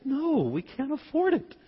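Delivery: high-pitched imitation of wife refusing; mock wifely no, pitched well up; lightly scolding retold refusal; objecting wife. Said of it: "she said".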